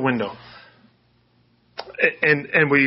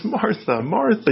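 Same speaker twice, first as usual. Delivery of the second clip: tender address; 7 semitones higher, slower than usual. Acted. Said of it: "No, he says".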